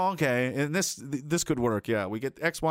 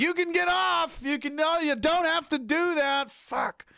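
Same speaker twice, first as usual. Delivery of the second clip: mock yell; 13 semitones higher, slower than usual. Yelling at the wheel.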